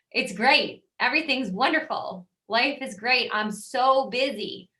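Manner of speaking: imitating an agent bragging how busy she is; mock gushing brag. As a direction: ham up the it's-all-wonderful reply. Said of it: "be careful with those types of words".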